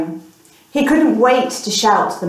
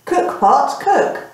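magic words; 6 semitones higher, slower than usual. Acted. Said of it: "What magic words does she say?".

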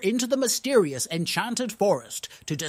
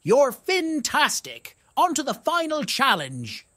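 excited exclaim; 6 semitones higher than usual. Acted. Fish praises the heroes after being caught, delighted. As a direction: cheer them on with joy. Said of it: "who exclaimed".

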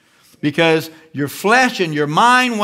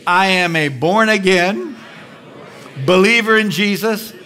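bold declaration; 4 semitones higher than usual. Shown as a demonstration. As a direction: proclaim it with growing conviction. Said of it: "Just say it out loud".

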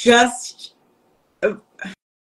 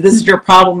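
louder, punching the word "This"; confrontational; 4 dB louder than usual. Retold or imitated. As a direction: get right in her face with it. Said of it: "And I just slammed into her".

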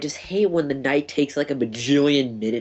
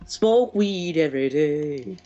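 stoner meme voice; 4 semitones higher, slower than usual. Retold or imitated. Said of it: "Actually, no, a better one".

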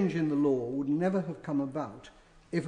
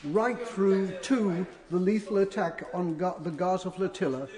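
raised, indignant speech; heated parliamentary debate; 4 semitones higher than usual. Real, not acted. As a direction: push it with rising anger. MP rails against Israeli regime.

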